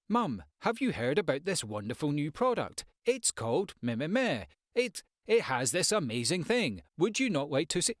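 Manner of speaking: pitching a product at mum like an advert; overdone sales pitch. Shown as a demonstration. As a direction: sell it like a cheesy TV ad. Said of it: "You're not gonna talk like that to your mum".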